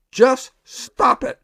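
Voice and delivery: slow, deadpan shrink telling a patient to quit; drawn-out dry advice, lightly imitated; Bob Newhart impression. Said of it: "That was his response".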